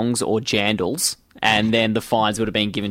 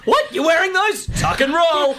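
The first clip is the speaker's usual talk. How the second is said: mock alarm.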